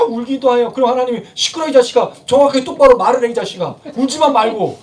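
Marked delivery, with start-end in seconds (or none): 1.3-4.8 scolding parent. Acted. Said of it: "부모들이 자녀들한테 하는 얘기 그거 아니에요".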